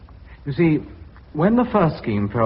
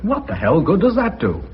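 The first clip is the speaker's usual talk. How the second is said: exasperated outburst; 7 semitones higher, 4 dB louder than usual. Acted. Director challenges the plan.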